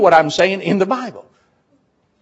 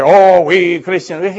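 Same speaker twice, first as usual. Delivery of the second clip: slow, louder, mock-proud "we Christians"; mock pride; 6 dB louder, slower than usual. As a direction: play a smug believer, drawn out. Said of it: "You don't have to do this and say".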